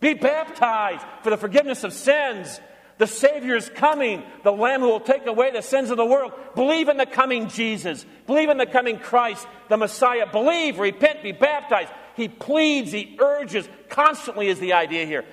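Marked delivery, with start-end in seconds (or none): 0.0-11.9 higher, urgent pleading call to repent; pleading cry. Retold or imitated. Preacher voicing John the Baptist calling the lost to repent, higher and urgent. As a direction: plead with the crowd to turn back. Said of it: "he cries".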